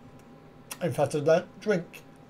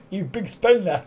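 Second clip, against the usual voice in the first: laughing tease. Real, not acted. Teasing chat about cheap beer.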